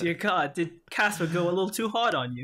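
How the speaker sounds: mock concern in British tones; British-accented teasing question; attempted British accent. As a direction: tease with a put-on British accent. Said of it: "try my British accent".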